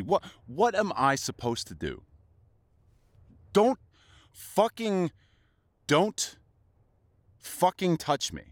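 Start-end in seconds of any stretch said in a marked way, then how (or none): 3.5-8.4 high, loud snapping warning; angry shout to back off; furious warning. Acted. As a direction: keep them off you. Pushing lover away in fight.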